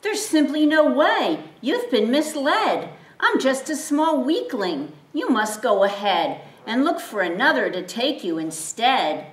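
small donkey protesting he is too weak; fearful pleading. Acted. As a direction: beg him to choose someone else. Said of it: "cried the donkey with dread".

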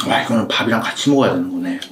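chewing food while talking; muffled by food in mouth; mouth full. Real, not acted. Seen 0: Ate rice just before; mouth working, cheeks full while speaking.

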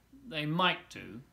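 slow, sly sneer; a slow, sly hint of a sneer; sneering crocodile. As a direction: drag it out, hiding something. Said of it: "sneered the crocodile".

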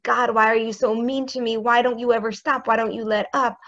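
lightly acted complaint; complaining prayer. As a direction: gripe at God like a hurt child. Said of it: "of complaint".

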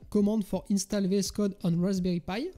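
French speaker's go at an English accent; killer English accent. Real, not acted. Tutor reads out the GitHub page title, killer English accent. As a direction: read it in English with a self-mocking French-tinged accent. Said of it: "avec l'accent anglais qui tue".

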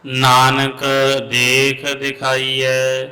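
measured chant of Gurbani; santhya recitation. Real, not acted. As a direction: recite slowly, line by line. (Gurbani ਦਾ ਸੰਥਿਆ ਪਾਠ)

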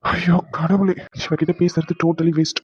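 slow, dragged-out disgust; drawn out, fed up with her; exasperated. Acted. Husband to wife, slow and disgusted.

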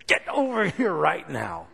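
a firm, cross summons; a mother ordering sharply; stern command. Shown as a demonstration. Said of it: "a whole different response than if she says".

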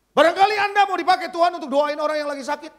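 high, loud, fast exhortation; fervent preaching. Real, not acted. Preacher urging listeners to pray for the sick, fervent. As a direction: urge the congregation in one pressing rush.

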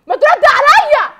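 high, loud and slow, each word pressed; furious slow command; angry slow demand. Acted. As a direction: force him to answer, loud and deliberate. Wife demands husband answer.

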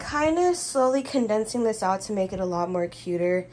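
talking while eating strawberries; mouth full. Real, not acted. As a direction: speak through a mouthful. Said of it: "I'm eating strawberries right now".

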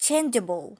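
"Changeable" with a loud first syllable, then falling; pronunciation model. Shown as a demonstration. Teacher echoes the recording for learners, pronunciation model. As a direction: hit CHAIN in "Changeable", let juh-bul drop. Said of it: "แล้วก็ออกเสียงเป็น".

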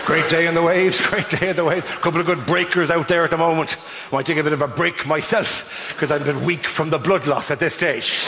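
forced breezy chat. Retold or imitated.

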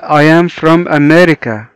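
slow, word by word; slow teacher read; slow model reading. Shown as a demonstration. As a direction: model it slowly for learners. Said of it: "صديقنا بيقول لنا".

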